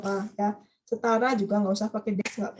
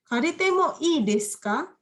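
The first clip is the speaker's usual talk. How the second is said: slow example request; 5 semitones higher than usual. Shown as a demonstration. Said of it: "Ini juga bisa".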